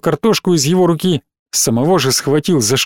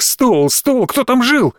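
desperate; 8 semitones higher, slower than usual. Acted. Khas desperately grasps memory.

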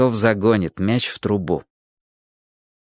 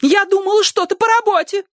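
shrill; 3 dB louder than usual. A narrator's reading. Wife defends herself to husband, shrill squeal. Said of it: "визгливо сказала женщина".

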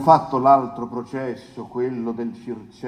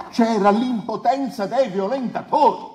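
higher and laughing, amused at his own point; 8 semitones higher, 4 dB louder than usual. Real, not acted. Defence lawyer mocking the accusation to the court, laughing. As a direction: chuckle through the words as if it were obvious.

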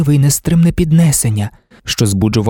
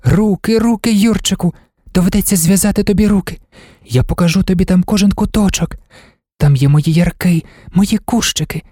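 put-on higher, dreamy girl's voice; eager Marta; 7 semitones higher than usual. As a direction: voice an enthusiastic girl, pitched up.

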